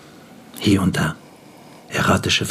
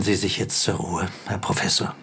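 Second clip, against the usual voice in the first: softly spoken, almost whispered; hushed; 6 dB quieter than usual. Acted. Doctor quietly bidding the old professor goodnight. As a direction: drop to a hush at the bedside. Doctor bids patient rest.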